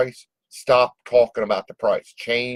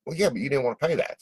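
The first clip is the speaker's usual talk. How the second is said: quick, softer teasing reply; joking comeback; 4 semitones higher, 5 dB quieter, faster than usual. Acted. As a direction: toss it back lightly as a joke. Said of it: "make it into a joke".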